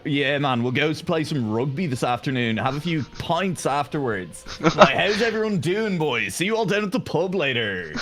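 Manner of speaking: light imitation of a posh south Dublin accent; lightly voiced posh Dublin accent. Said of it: "on the rich side of the city, where they all talk like this".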